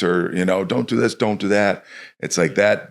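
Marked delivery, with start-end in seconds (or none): 0.6-1.8 higher, curt mock orders; nagging coach. Coach barking orders at a kid, lightly mocked. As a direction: rattle off commands like a nagging coach. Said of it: "instead of just yelling".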